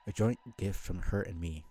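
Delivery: corrected line read with a laugh; laughing reread of the corrected line; laughing through the line. Acted. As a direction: laugh as you reread it properly.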